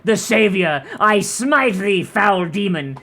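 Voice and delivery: booming, solemn holy-warrior proclamation; mock biblical prophet. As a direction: declaim it like a crusader smiting a demon. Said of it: "you're like".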